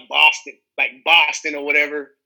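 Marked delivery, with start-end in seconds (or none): 0.1-0.6 louder Boston-accented place name. Shown as a demonstration. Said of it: "I've had to do a Boston accent before". 1.0-1.5 quick demo of a Boston accent. Shown as a demonstration. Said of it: "I've had to do a Boston accent before".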